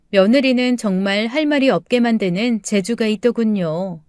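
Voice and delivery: plain reading voice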